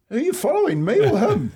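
rally them against the coach; high cheeky call to the players; challenging the team. Retold or imitated. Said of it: "I looked at the boys and said".

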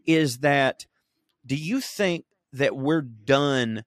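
usual speaking voice

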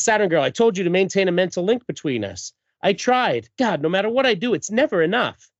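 comic-book bickering, hammed up; acted quarrel.

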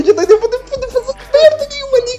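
laughing. Real, not acted. Laughing while complaining.

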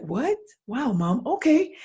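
put-on high, astonished teen reaction; surprised daughter. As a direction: caught off guard by mom's openness. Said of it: "She'll be like".

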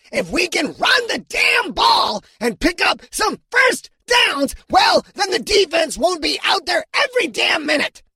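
alien coach shouting. A narrator's reading. Coach Hokor fires up his losing team, high angry shout. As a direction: bark the plan at the team, fired up.

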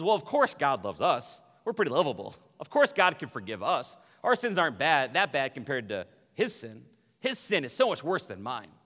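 self-righteous churchgoers comparing sins, smugly. Retold or imitated. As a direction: preen about your own goodness. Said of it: "the smug religious undertone".

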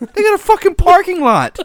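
high-pitched shouted protest; loud, indignant disbelief; incredulous outburst. Real, not acted. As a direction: yell it in comic outrage. Outraged reaction to absurd law.

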